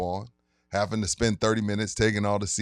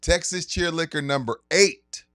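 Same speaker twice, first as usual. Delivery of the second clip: sponsor ad read. Acted. Host reads liquor store sponsor ad to listeners, hype announcer voice. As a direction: sell the event like a radio spot.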